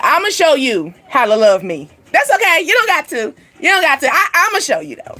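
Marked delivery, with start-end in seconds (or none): 2.1-5.2 higher-pitched, light brush-off; acted dismissive reassurance. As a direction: wave it away in a raised, easy voice. Acting reassurance to a lover.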